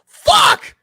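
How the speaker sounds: sudden high, loud yell; high-pitched explosive shout. Retold or imitated. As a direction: yell it out like the game just slipped away. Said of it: "I just yell".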